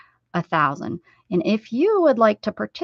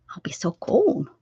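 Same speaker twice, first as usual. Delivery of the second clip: whispered worry; soft whispered aside; 3 dB quieter than usual. Real, not acted. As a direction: breathe it out as a private fret.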